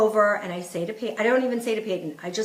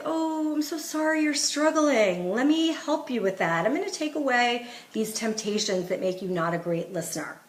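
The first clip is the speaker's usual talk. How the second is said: sympathetic; 4 dB quieter than usual. Shown as a demonstration. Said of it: "you sort of make it like".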